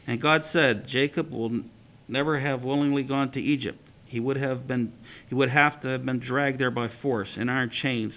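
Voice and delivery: steady read-aloud storytelling voice; story reading. A narrator's reading. Teacher reading a midrash to the class, storytelling.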